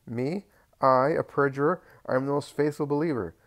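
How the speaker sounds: outraged denial of perjury; indignant landowner. A narrator's reading. Doris protests being called perjurer.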